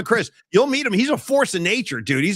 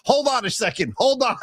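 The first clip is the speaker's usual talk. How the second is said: Kraft; 6 semitones higher than usual. Retold or imitated. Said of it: "Robert Kraft walks right in the middle".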